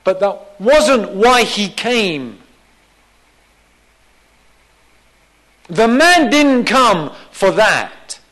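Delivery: slow, weighty preaching with stressed words; emphatic preaching. Real, not acted. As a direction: drive the point home slowly from the pulpit. Preacher raises his voice in emphasis.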